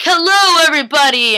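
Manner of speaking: high, loud mock-grand hello; playful imitation of a grand entrance; showy greeting. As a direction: announce yourself to the whole party, starting high. Acting out Klaus's grand entrance.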